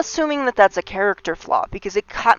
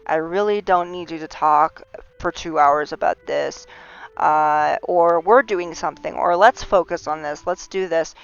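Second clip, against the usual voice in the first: calm; 2 semitones lower than usual. Shown as a demonstration. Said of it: "discuss with them very calmly".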